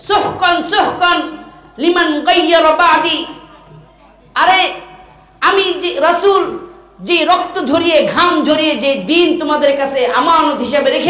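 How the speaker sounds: high-pitched, indignant rebuke; angry rebuke. Acted. Prophet disowning those who destroyed his religion, angry. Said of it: "রাগান্বিত হয়ে".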